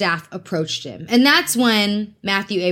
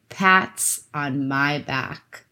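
drawn out very slowly and softer; slow, soft self praise; 5 semitones lower, 3 dB quieter, much slower than usual. Real, not acted. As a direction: savour it slowly, half to yourself. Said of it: "That's all I'm gonna say".

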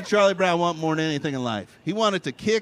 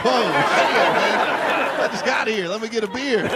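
drawn-out stunned reply; 2 semitones higher than usual. Retold or imitated. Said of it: "I'm like".

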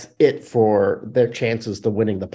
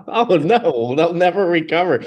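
mock dismay, laughing through it; sarcastic; 6 semitones higher, 4 dB louder than usual. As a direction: fake tragedy, tongue in cheek. Mock grief over departing player.

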